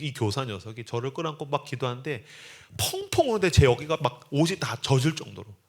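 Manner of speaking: ordinary delivery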